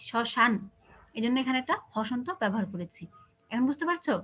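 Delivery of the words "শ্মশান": শ্মশান as "sho-shan", closed n; stopped final consonant. Shown as a demonstration. Teacher showing the stop, শ্মশান closed on n. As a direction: end শ্মশান on the n, no vowel after. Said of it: "লাস্টে যেহেতু থামছি".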